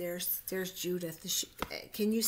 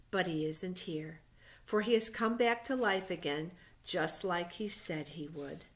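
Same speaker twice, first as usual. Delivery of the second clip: reading a Bible story aloud, louder and measured; story narration; 3 dB louder than usual. A narrator's reading. Teacher reading Easter story to children, storybook narration. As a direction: tell it like a picture-book story to little ones.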